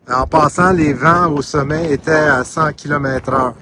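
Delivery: shouting over wind. Real, not acted. Talking on a windy summit.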